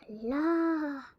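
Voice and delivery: breathy startled whisper. Real, not acted. Gamer spooked by something on screen, whispering. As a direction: hush it out in alarm.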